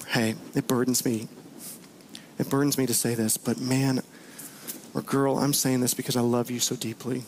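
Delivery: a dear friend gently voicing a hard truth out of love, tender and soft; tender confession. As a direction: lean in, gentle and heartfelt, as if it hurts to say it. Friend's heartfelt confrontation voiced.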